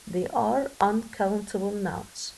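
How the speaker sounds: slow, deliberate teacher modelling; careful classroom dictation pace; slow model reading. Shown as a demonstration. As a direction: spell each word out slowly for the class. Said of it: "teacher models the sentence slowly".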